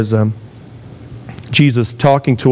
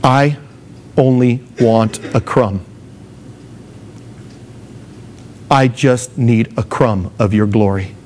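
slow, halting, humble plea; humble pleading; 3 dB quieter than usual. Acted. A woman begging the Lord for a crumb, humbly pleading. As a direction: ask meekly, with long pauses.

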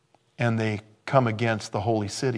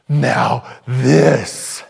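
louder, proud "Now this."; grand reveal; 8 dB louder than usual. Pretend. God unveiling eternal glory, loud proud reveal. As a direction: announce the greatest gift.

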